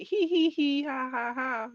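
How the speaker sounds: loud, high mock giggle; hammed-up hee-hee, ha-ha laughter; imitated laughing. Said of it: "she's smiling and laughing like".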